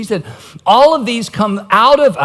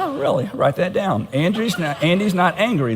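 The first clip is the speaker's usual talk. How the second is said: softer, dry mock note-taking; hint of an unconvinced therapist, quietly jotting it down; understated mock interest, then murmured notes; lightly voiced counselor; 5 dB quieter than usual. Mimics counselor dryly taking notes.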